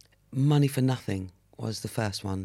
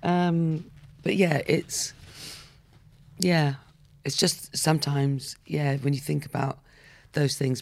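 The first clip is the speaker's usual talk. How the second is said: tearful; 3 semitones higher, slower than usual. Real, not acted. Recovering from tears.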